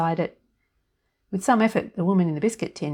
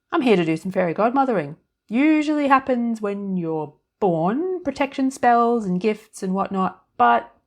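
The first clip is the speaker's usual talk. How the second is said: put-on high, loud, chirpy little old woman; fairy godmother voice; 5 semitones higher, 5 dB louder than usual. A narrator's reading. Tiny woman in the biscuit tin greeting Annie, high and chirpy. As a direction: pipe up brightly from inside the tin.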